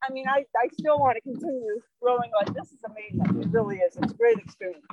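winded mid-stroke, pushing words out; out of breath. Real, not acted. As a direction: speak between hard breaths. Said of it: "now I have to catch my breath".

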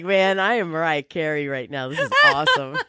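giggling through a pretend pop-star boast; half-laughing, playing the diva; laughing mock diva. Laughing at herself as a pretend diva. Karaoke pop-diva fantasy.

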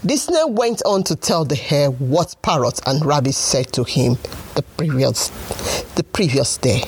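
put-on lively storybook narration for kids; story narration. A narrator's reading. Storyteller reading to children, bright and lively. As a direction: tell it like a bedtime tale.

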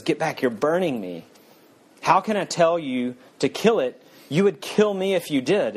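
frightened ghost. Acted. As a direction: recoil in fear, pitch up.

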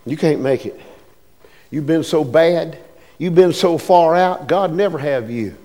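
low, quiet voice of the devil; softly discourage, voice dropped low at the start; devil's discouragement. Acted. Devil to the lost who think they can't make it, low discouragement. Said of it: "the devil says to you".

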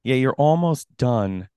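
slow, drawn-out mock encouragement; depressing encouragement. Co-host mimicking a spectator at the race, depressingly. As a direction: drag it out like a discouraging spectator. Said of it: "it's pretty depressing".

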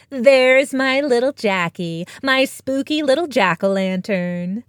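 cooing. Acted. Farmer cooing to her cat while feeding chickens. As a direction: coo it sweetly to a pet. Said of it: "Maggie cooed".

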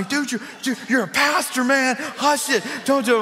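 a hint of a wife hushing her husband; imitating his wife. Wife scolds him at game.

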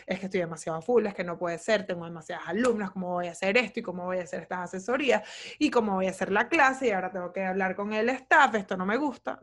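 a half-hearted imitation of a stressed-out rant; mock frazzled rant. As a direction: rattle off the worries like a frazzled mom. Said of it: "me quedo".

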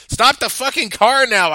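loud, high furious demand. Acted. Hostage shouts at the driver to stop, loud furious demand. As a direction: order him to stop, shouting. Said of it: "I demanded".

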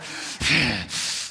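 loud, huffed dog breath; imitated hard panting. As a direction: huff hot breath like a looming Doberman.

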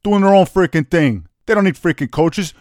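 loud, worked-up rant, speeding up at the end; heated rant. Real, not acted. Host ranting to his cohost about youth coaching, loud and heated. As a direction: rant hard against freaking coaches.

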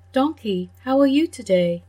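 a hint of a bright greeting dog; friendly dog. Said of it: "a dog ... said".

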